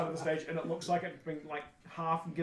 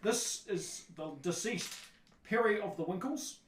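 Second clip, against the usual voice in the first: loud, higher, slow introduction; announcing stage player; 6 semitones higher, 4 dB louder than usual. Acted. Performer introduces cast to the audience, slow announcement. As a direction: present the cast member grandly. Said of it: "one of the people stands up and goes".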